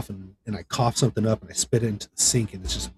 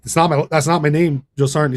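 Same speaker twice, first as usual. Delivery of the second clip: higher and louder, insistent; firm correction; 5 semitones higher, 7 dB louder than usual. Retold or imitated. Recruit to drill sergeant, loud insistent correction. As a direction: set the sergeant straight on your name.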